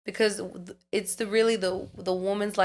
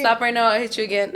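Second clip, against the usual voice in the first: laughing mock threat; 3 semitones higher, 4 dB louder than usual.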